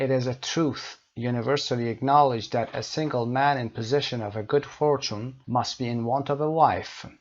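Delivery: slow, deliberate English read-out; measured classroom reading; teacher reading aloud. Acted. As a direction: read it out slowly for learners. Reads novel's first line aloud.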